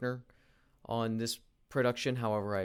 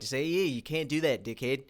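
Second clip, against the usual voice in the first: put-on Australian accent; 3 semitones higher, 4 dB louder than usual. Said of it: "A lot of the times I try to go for Australian".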